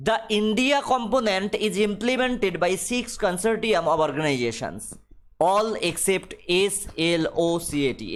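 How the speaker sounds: reads the English line very slowly, word by word; slow dictation reading. Acted. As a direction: spell it out for the class at dictation pace. (ধীরে ধীরে ইংরেজি পাঠ)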